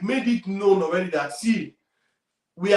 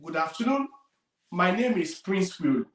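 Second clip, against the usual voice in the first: calm short intro. Shown as a demonstration. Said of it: "Simply say".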